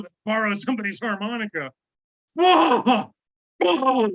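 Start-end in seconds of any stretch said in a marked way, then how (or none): 2.3-4.1 surprised whoa. Real, not acted. Reacting to harmonica gross-out.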